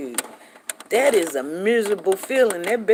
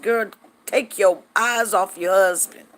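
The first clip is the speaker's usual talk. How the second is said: playful scolding; 5 dB louder than usual. Retold or imitated. Acts out scolding her pregnant friend.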